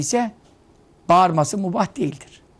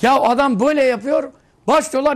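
higher, louder, excited storytelling; excited retelling; 7 semitones higher, 6 dB louder than usual. Retold or imitated. Preacher retelling the fans' roar, excited and louder. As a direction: rush it with excitement like the crowd. Retelling fans shouting at match.

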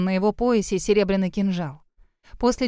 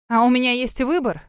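defiant; 3 semitones higher, 3 dB louder than usual. Acted. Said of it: "с вызовом бросила Диана".

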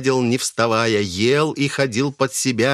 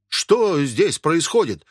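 higher, slow, dumbfounded; bewildered question; 6 semitones higher, slower than usual. Acted. Pickle seller, stunned, asking what is going on. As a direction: ask as if stunned. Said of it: "ошалело спросил торговец".

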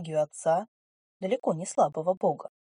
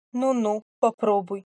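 mocking; 3 semitones higher, 5 dB louder than usual. Ring mocks the heroine.

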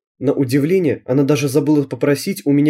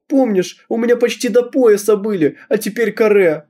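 tearful; 8 semitones higher than usual. Acted. Girl crying to mother.

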